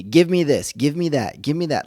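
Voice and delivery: put-on bossy greedy kid voice; demanding kids. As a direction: imitate kids ordering an AI around, demanding. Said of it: "that's how they talk".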